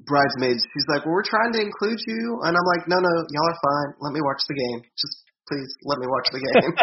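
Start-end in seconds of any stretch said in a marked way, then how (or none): 1.1-2.5 higher-pitched bridesmaid imitation; put-on higher voice for a bridesmaid; mimicking a bridesmaid. Bridesmaid's line voiced in bar story. 2.9-6.7 playfully imploring, stretched out; retold pleading. Retold pleading to watch the game.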